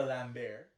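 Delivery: Lambert with a silent T, "lam-BAIR"; French-style pronunciation. Shown as a demonstration. Explaining the movie to a co-host, French-style Lambert. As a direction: end Lambert on an open "air", no T. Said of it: "Lambert would be the American pronunciation".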